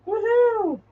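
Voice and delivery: a high, happy woohoo cheer; excited whoop. Real, not acted. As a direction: let out a bright celebratory woohoo. Cheering on camera.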